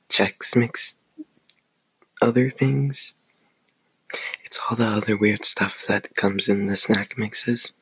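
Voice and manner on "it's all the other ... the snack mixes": whispering. Acted. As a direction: whisper it close to the mic. ASMR snack mix eating.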